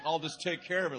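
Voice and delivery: hammed-up menacing reassurance; mock ominous promise. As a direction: mimic a hitman's assurance, loud and pointed. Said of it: "That's what I thought he meant".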